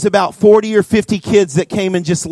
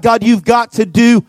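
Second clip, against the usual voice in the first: retold desperate prayer, mildly intense; crying out to God. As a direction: plead with God, then let it drop. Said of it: "I'm crying out to God".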